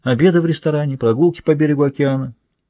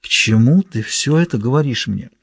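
struggling to get the words out; labored speech. A narrator's reading. Linda questioning Samantha's parable, speaking with difficulty. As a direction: force the question out, a touch strained. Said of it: "С трудом произнося слова".

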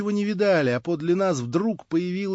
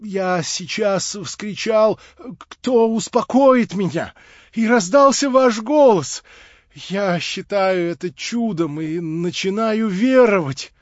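прерывающимся от радости голосом; 3 semitones higher, slower than usual. Acted. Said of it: "обрывавшимся от радости голосом".

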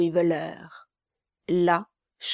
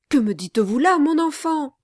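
put-on astonished old gentleman; 6 semitones higher, 5 dB louder, faster than usual. Mr Abel surprised.

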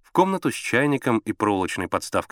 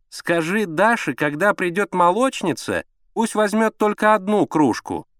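high, drawn-out instruction; insistent high woman's voice; ordering wife; 10 semitones higher, 4 dB louder, slower than usual. A narrator's reading. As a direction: give orders from the bedroom. Wife giving orders from bedroom.

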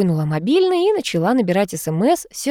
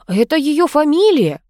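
snorting; 9 semitones higher, 5 dB louder than usual. A narrator's reading. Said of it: "фыркнула Дворкина".

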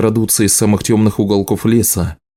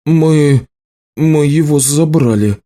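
halting, higher-pitched admission; stammering confusion; 6 semitones higher, slower than usual. A narrator's reading. Young juggler confesses to the healer, stammering and higher. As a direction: stumble on the first word, guiltily. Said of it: "сбивчиво ответил Рожер".

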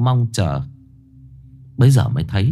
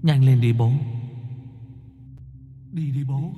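ghostly son urging; 6 dB quieter than usual. A narrator's reading.

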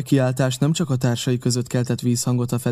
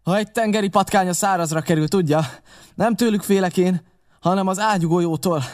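somewhat higher, firm character voice; captain in earnest; 5 semitones higher than usual. Acted. Captain weighing the danger of cannonballs, firm and higher. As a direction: explain firmly in a raised pitch.

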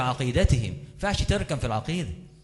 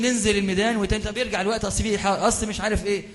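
higher-pitched imitation of squabbling activists; lightly mimicked dispute, pitched up; mock bickering; 5 semitones higher, faster than usual. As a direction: act out two men arguing back and forth. Acts out bickering fellow activists.

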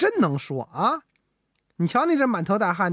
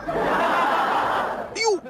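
laughing; 13 semitones higher than usual. Acted. Ji startled, laughs at emperor.

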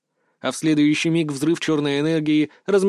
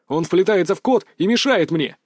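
barked; 3 semitones higher than usual. Acted. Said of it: "рявкнул Салтыков".

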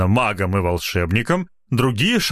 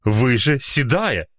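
reasonable objection; 3 semitones higher, slower than usual. Acted. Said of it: "резонно возразила".

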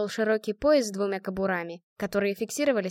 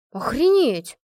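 громко, с изумлением; ахнуть от изумления; изумлённый возглас; 4 semitones higher, 7 dB louder, slower than usual. A narrator's reading. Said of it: "воскликнула Инга". (Инга поражена трюком Натки, громко ахает)

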